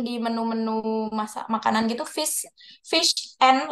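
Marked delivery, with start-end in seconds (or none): 2.0-3.7 fish and said slowly, and as just n. Shown as a demonstration. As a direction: stretch fish then a bare n. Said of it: "literally N".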